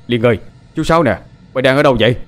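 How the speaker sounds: calling out. Acted. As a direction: call out to the lost girl. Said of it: "vừa đi vừa gọi to tên con Liên". (gọi to tìm Liên)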